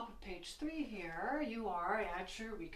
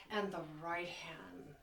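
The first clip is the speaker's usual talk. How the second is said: whisper; 4 semitones lower, 6 dB quieter than usual. Real, not acted. Soft aside in explanation.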